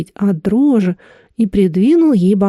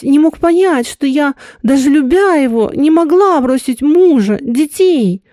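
a lightly voiced grieving woman, a little higher; 4 semitones higher than usual. Woman confessing her dead lover's suicide, lightly grieving. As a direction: let her pain show gently.

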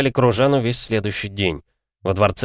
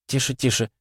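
soothing hush; 5 semitones higher, 3 dB quieter than usual. Acted. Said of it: "причитала Михли".

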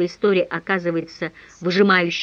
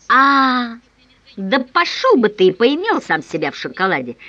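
louder disgusted outburst; disgusted roar; 3 semitones higher, 5 dB louder than usual. Acted. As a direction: bellow it in disgust. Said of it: "С отвращением взревел я".

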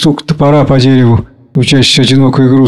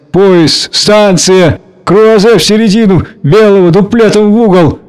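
higher, mildly flustered rambling; holding back tears; 6 semitones higher than usual. A narrator's reading. Gayev badly flustered at parting, holding back tears. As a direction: ramble on to keep from crying. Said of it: "боится плакать".

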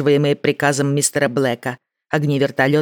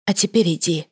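gentle; 3 semitones higher than usual. Acted. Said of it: "мягко добавила она".

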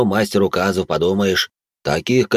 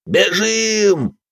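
a much higher, panicked scream; yelling; 12 semitones higher than usual. A narrator's reading. Браут орёт в панике и бросается прочь. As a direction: bolt and scream it. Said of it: "заорал Браут".

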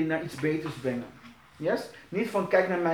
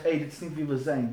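softer, lower "hé, hey, dit is niet wie we zijn"; gentle reminder; 4 semitones lower, 6 dB quieter, faster than usual. Shown as a demonstration. Leader gently reminding a lax volunteer, softer and lower. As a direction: remind them kindly who we are. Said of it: "Je zegt".

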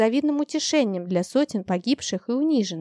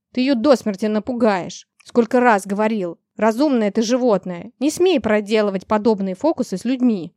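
loud furious scolding; angry shouting; 4 dB louder than usual. Acted. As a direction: yell at a misbehaving beast. Master scolds the dragon loudly.

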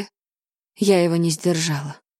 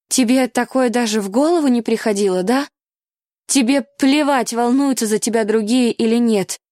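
higher, louder reproach; angry heroine; 4 semitones higher, 3 dB louder than usual. Acted. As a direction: hurl the blame at him. Charlotte's angry outburst.

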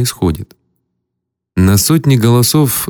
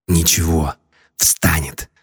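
low, quiet and unhurried; perfectly calm; 5 semitones lower, 6 dB quieter than usual. Acted. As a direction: say it completely calmly, no worry. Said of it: "совершенно спокойно сказал мне Генлон".

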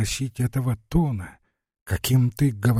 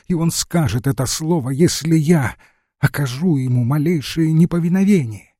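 rising bitter threat; 4 semitones higher than usual. Acted. Lara confesses to her friend, building into defiant anger.

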